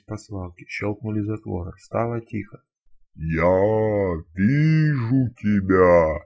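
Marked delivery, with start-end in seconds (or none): 3.1-6.2 booming, very slow ghostly spirit voice; thunderous otherworldly voice. Acted. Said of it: "громовым потусторонним голосом".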